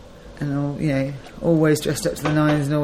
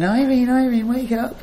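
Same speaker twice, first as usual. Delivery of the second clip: friends waking her; 6 semitones higher than usual. Retold or imitated. Ladies waking grandma, retold.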